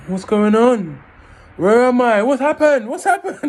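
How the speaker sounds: high, loud fake confusion; feigned daze. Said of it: "I'm trying to act as if".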